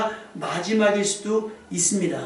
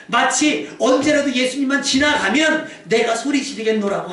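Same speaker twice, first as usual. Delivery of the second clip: raised, urgent pulpit voice; forceful preaching; 5 semitones higher, 5 dB louder than usual. Real, not acted. Preacher urging worshippers to seize the chance, forceful preaching. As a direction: press the exhortation on the congregation.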